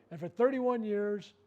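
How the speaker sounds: drawing out the years of experience; slow emphasis. Retold or imitated. Surgeon to patient, stressing long experience, slow and heavy.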